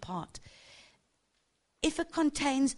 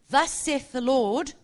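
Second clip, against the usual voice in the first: a hint of a stern preacher with a slight American accent, a bit louder; mock stern prophet; 3 semitones higher, 6 dB louder than usual. Preacher mocking solemn prophets, lightly stern and slightly American. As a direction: lightly send up a solemn "Thus saith the Lord". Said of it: "with a stern face and a slightly American accent".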